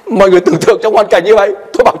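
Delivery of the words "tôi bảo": usual speaking voice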